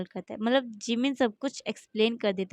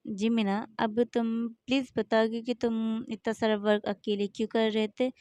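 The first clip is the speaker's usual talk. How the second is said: gentle asking. Acted. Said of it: "बहुत आराम से और बहुत प्यार से पूछता है".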